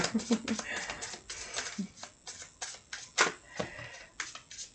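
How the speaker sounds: long laugh at her own accent; self-mocking laugh. Real, not acted. Reader mocking her own English accent, long self-mocking laugh. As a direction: laugh at yourself, trailing on. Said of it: "Moi aussi, j'en ris".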